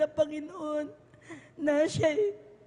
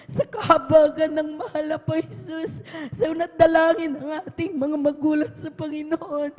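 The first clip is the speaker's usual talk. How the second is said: lifted, loud preaching fervour; fervent, louder testimony; 5 dB louder than usual. Real, not acted. Testifying to the congregation, loud and fervent. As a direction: build it up with rising conviction.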